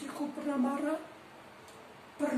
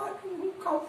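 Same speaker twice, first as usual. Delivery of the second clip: higher-pitched, mildly tearful retelling; retold tearful account; 5 semitones higher than usual. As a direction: imitate a sibling's moved, high-pitched praise. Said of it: "menceritakan sambil menangis".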